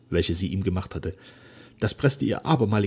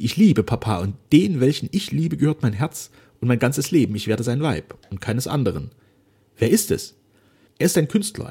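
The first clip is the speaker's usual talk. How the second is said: put-on a touch raised, fervent young woman; a loving daughter reassuring her father; Flora's voice; 4 semitones higher, 6 dB louder than usual. A narrator's reading. Daughter embracing her father, fervently forgiving.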